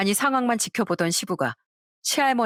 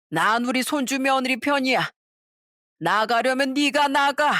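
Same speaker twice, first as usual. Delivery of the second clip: 시어머니에게 따지는 대사; 5 semitones higher than usual. Acted.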